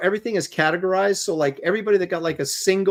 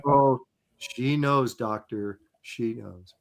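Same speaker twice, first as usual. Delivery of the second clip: Star Trek Spock line; 2 semitones lower, much slower than usual. Acted. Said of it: "kind of a half line from, uh, Star Trek".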